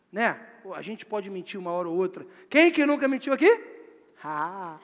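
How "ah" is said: ordinary delivery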